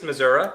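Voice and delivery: "Missouri" ending in "uh"; local Missouri pronunciation. Real, not acted. Southeast Missouri native naming home, local "uh" ending on "Missouri". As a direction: say "Missouri" as Mizzuruh. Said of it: "I can't say I".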